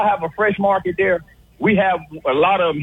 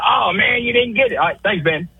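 a quick, slightly raised caller imitation; imitating the caller. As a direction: toss it off fast like the flustered caller. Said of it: "you can hear his voice when he said".

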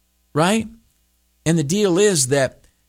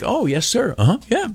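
mock agreement; 10 semitones higher than usual. Feigned engaged reply to boss.

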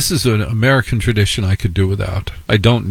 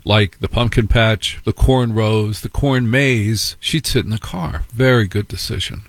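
ordinary talk, nothing marked

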